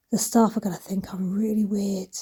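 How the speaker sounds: hushed, voiceless whisper to herself; whispered thought. Retold or imitated. At the self-checkout, worrying what staff think, whispered. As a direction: whisper it like a private embarrassed thought.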